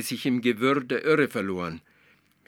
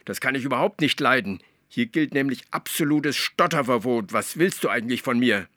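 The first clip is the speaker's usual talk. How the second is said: louder scolding, fast in places; 4 semitones higher, 5 dB louder than usual. Acted. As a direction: scold the stutterer. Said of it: "schimpfte die Zaubermilch". (die Zaubermilch schimpft mit Atze, laut)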